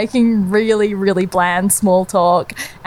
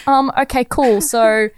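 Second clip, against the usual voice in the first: awkward, higher-pitched retold reply; mild nervous politeness, raised pitch; 5 semitones higher than usual. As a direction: play along uneasily. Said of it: "I start nervously laughing, being like".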